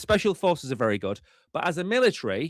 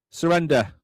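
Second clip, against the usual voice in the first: mock demand; 5 dB louder than usual. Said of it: "drove it to the border of France and went".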